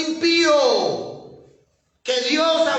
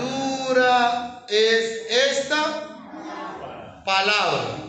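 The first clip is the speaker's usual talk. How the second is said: very slow quote; much slower than usual. Shown as a demonstration. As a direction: drag each word out. Pastor quotes the disciples, dragging it out.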